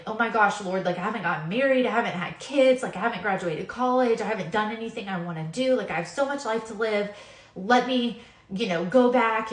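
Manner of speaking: panicked. Retold or imitated. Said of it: "that you would be like".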